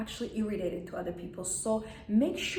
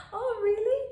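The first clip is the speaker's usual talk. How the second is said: high-pitched, louder "oh, really"; amused reaction; 12 semitones higher, 5 dB louder than usual. Shown as a demonstration. Woman showing a sense of humor, high amused reply. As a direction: lift it way up in polite amusement.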